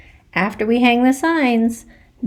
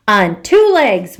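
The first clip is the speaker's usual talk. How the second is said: slow, louder scolding; a mild mock yell of a cross mother; mom yells; 2 semitones higher, 5 dB louder than usual. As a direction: spell it out like a fed-up mom. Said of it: "my mom yells".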